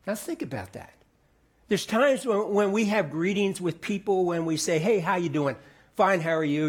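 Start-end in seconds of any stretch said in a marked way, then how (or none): 4.8-6.7 breezy throwaway hello, no weight; casual greeting. Shown as a demonstration. Pastor showing a quick hallway greeting, casually. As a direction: toss it off like a passing cliche. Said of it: "we just kind of pass".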